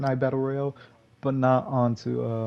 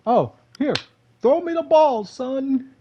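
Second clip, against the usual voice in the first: much higher and louder, "throw me the ball" like a coach; playful hype call; 12 semitones higher, 6 dB louder than usual. Retold or imitated. Gamer asking teammate for the minis, loud playful call. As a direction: call for it gleefully. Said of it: "And so I was like".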